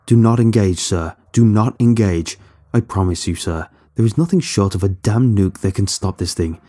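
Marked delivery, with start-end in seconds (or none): 0.1-2.4 urgent command. Acted. Pleading captain not to fight.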